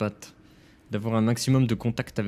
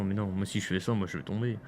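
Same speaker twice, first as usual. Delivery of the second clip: trailing off; 2 semitones lower, 5 dB quieter, faster than usual. Real, not acted. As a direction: voice fading out mid-sentence. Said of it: "Vas-y, finis ta phrase".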